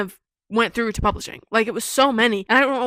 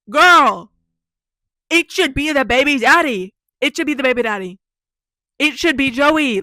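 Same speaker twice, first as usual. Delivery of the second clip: loud, higher-pitched protest; loud, indignant objection; exasperated outburst; 3 semitones higher, 6 dB louder than usual. Real, not acted. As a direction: insist with rising exasperation. Exasperated outburst at the mom's demand.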